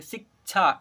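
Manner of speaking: "शिक्षा" split as sik, chhaa; k sounded. Shown as a demonstration. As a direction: hold on the क before छा in "शिक्षा". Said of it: "क की भी उच्चारण करेंगे". ("शिक्षा" को सिक-छा, क के साथ बोलें)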